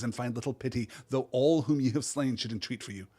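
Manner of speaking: solemn, doom-laden prophecy reading; dramatic reading. Acted. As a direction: pronounce the curse with weight. Reads the prophecy aloud.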